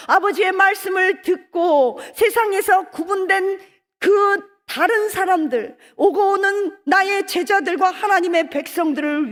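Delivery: preaching at full force. Acted. Jesus's prayer proclaimed.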